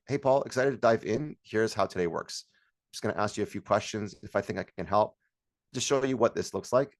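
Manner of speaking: composed, businesslike call opener; matter-of-fact professional greeting, settling down; doctor-like framing. Shown as a demonstration. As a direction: lead the client like a doctor with a patient. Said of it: "Like a doctor".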